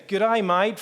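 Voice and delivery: quick Australian greeting put on; Australian accent. Shown as a demonstration. Speaker showing off the Australian accent to the audience. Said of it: "I can switch between the accent".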